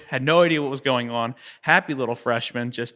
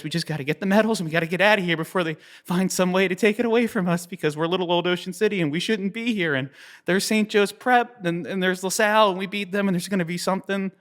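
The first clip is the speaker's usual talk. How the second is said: anxious hurry; 6 semitones higher than usual. Retold or imitated. Crew urges a quick exit.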